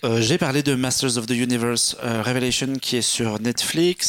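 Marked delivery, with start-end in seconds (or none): 0.7-2.7 title in a light English accent. Real, not acted. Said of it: "il dit ça avec un accent anglais".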